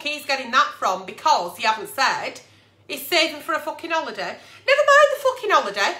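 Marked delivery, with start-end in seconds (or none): 4.7-5.9 high, fast and loud, almost shrieking; exasperated shout. Real, not acted. Agony aunt shouting her outrage about the holiday. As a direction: blast it out in outrage. Ranting at absent partner.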